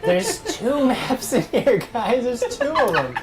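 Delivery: put-on slurred, rambling drunk voice; town drunk voice. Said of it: "Is he drunk or high?".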